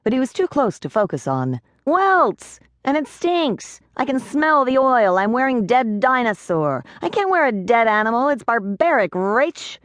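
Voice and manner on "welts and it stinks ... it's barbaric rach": high, whiny pleading pixie. A narrator's reading. Pixie pleading with Rachel over the stinking suit, high and whiny. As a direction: beg her, tiny and high. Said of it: "he pleaded".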